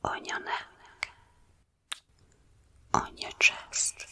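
very soft close whisper; right in your ear. Acted. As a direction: breathe each word into the ear. Close whisper, imagined kisses.

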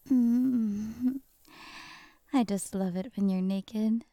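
usual speaking voice

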